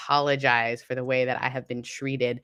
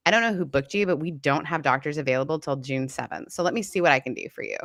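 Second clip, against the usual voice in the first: mocking receptionist. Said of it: "she literally was talking to me like this".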